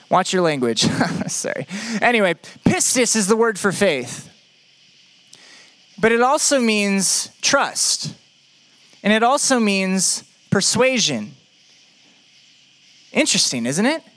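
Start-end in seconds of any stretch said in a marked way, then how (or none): 6.0-11.4 slow emphasis. Shown as a demonstration. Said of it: "slow emphasis on meanings".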